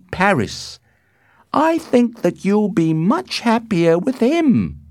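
high, loud, deliberate advice; slow. A narrator's reading. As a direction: spell out the nurse's counsel slowly. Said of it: "she said slowly".

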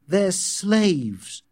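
high, emphatic realisation; indignant thought. A narrator's reading. John watching the twins queue, indignant.

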